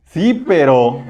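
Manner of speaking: laughing through a hesitant "sí, pero"; mock excuse with a chuckle; amused half-hearted yes; laughing reluctant yes. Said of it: "la respuesta a otros muchas veces es".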